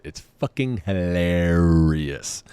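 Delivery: slow, stretched "hilarious"; drawn-out emphasis. Real, not acted. Comic recommending the drunk-word game, slow relishing emphasis. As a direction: draw it out with relish.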